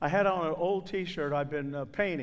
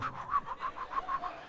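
rapid high puffing noise for a struggling dog; quick mimicked flutter of a dog's tail; imitated wagging noise; 7 dB quieter than usual. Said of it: "the dog's tail going".

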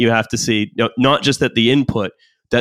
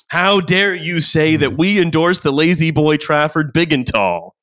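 slow, higher, mock-offended protest; indignant newspaper voice; 5 semitones higher than usual. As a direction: play the outraged newspaper. Voicing outraged New York Times.

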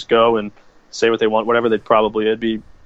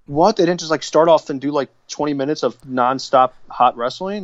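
sarcastic mock disbelief; 4 semitones higher than usual. Sarcastic mock surprise at complainers.

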